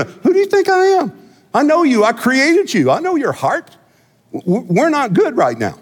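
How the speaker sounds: a hint of an indignant God, rising; voicing God. Pastor voicing God rebuking the people, indignant. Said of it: "He just says".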